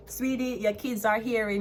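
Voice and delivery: sugary pitying "sweetie"; mock sweet. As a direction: talk down sweetly to a critic. Mock sweet address to critic.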